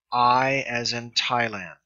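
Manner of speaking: slow, careful I as in Thailand, stretched out for learners; careful pronunciation demo. Shown as a demonstration. Greek tutor showing students the alpha iota sound, slow and careful. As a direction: spell out the sound I like a patient teacher. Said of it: "and that is pronounced".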